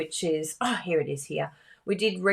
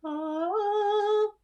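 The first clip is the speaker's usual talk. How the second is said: high sung "Ah"; a little high-pitched sung note; playful sung exclamation; silly sung ah. Retold or imitated. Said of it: "I just go".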